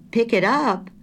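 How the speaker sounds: high, loud startled echo; surprised. A narrator's reading. Wife startled by grocer's question, surprised echo. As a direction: caught off guard, echoing his words. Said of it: "In her surprise".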